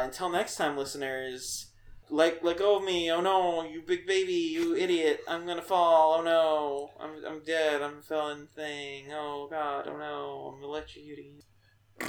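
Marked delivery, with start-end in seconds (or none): 2.1-12.0 screaming while falling. Acted. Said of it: "Good one. That was a good sign off".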